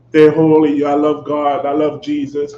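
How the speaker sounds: sanctimonious professions, mockingly measured. Preacher mimicking hypocritical religious leaders, mock pious. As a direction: imitate pious church talk, monotone. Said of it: "as a holier than thou".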